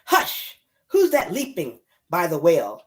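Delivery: lilting, rhythmic picture-book reading; mama shushing animals in singsong verse; reading to children. Acted. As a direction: swoop up on the pleas, settle on the refrain. Reads picture book aloud.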